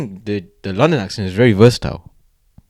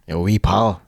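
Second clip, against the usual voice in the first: a light imitation of a Scottish accent; mock Scottish accent; 2 semitones lower, 3 dB quieter, slower than usual. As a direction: greet a mate the way a Scottish lad would. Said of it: "What about the Scottish accent?".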